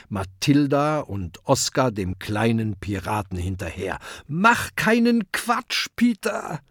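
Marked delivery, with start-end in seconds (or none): 4.3-6.6 high, slow warning call; young dragon calling after his friend. A narrator's reading. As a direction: call after him, pleading. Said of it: "ruft Kokosnuss".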